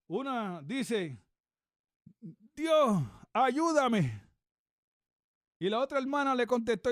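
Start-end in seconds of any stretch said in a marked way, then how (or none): 2.6-4.2 loud, higher, drawn-out mock plea; calling out for help. Little girl at play calls on God for help, loud imitated plea. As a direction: cry out slowly to heaven, imitating a child.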